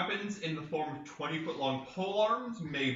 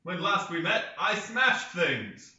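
dramatic narrator; 4 semitones higher, 4 dB louder, slower than usual. Pretend. Jokey dramatic recap opener.

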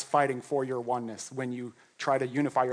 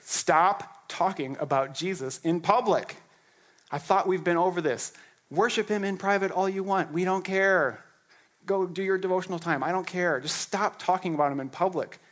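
dismissive priest; 3 semitones higher than usual. Acted. High priest brushing off the apostles, in a higher sneering voice. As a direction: wave them off like a tired official.

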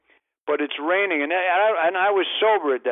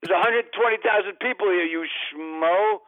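exasperated retort; 5 semitones higher than usual. Retold or imitated.

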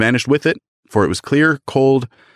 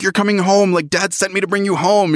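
little sister voice; 10 semitones higher than usual. Retold or imitated. Voicing the little sister Fan.

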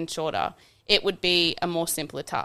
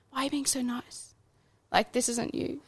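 mocking friends voice; 7 semitones higher, 6 dB quieter than usual. Friends questioning his niceness.

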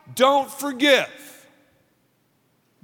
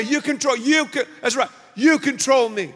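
voicing the unforgiving self. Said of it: "I'm saying".

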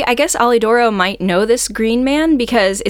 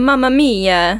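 slow, higher, rising mock-Italian "Mamma mia"; drawn-out Italian-style "Mamma mia" with a lift on "mamma"; playful Italian sigh of dismay; 4 semitones higher, slower than usual. Reaction in Italian exclamation.

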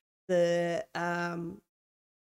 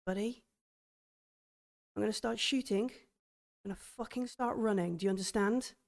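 tense hushed plan; 6 dB quieter than usual. Acted. Darla quietly warning her buddy before running, hushed and tense. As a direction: keep it hushed so it won't hear.

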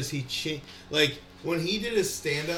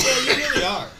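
mocking self-talk; 11 semitones higher, 8 dB louder than usual. Mocking own lack of discipline.

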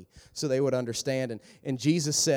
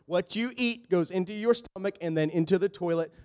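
exasperated Jesus; 4 semitones higher than usual. Retold or imitated. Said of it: "Jesus is like".

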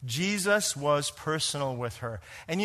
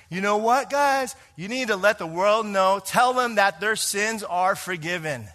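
fired-up preacher; 4 semitones higher, 3 dB louder than usual. Retold or imitated. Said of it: "he would often say".

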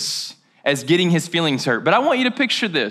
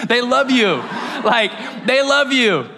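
laughing emphasis; 3 semitones higher than usual. Real, not acted. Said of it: "laugh shout".

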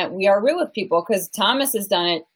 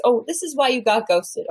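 higher-pitched mock coach voice; relationship coach; 5 semitones higher than usual. Relationship coach lecturing clients, higher mock advice voice. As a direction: imitate a know-it-all coach, pitched up. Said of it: "is that they're always".

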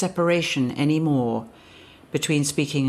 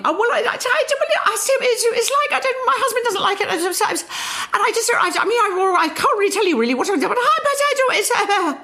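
much higher, fast and giggly; a high, embarrassed voice that loses its ground; high nervous voice; much faster than usual. Retold or imitated. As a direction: jump up high, flustered and laughing. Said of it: "suddenly this very professional basso continuo voice became".

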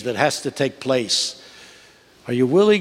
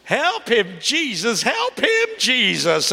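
high, pleading cry for help from the pews; church lady yelling; 10 semitones higher, much slower than usual. Retold or imitated. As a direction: call out to Jesus from the back. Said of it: "some lady in the back of the church yelled".

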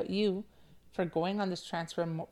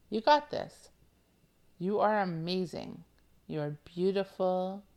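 excited. Real, not acted. Hype repeat to listener.

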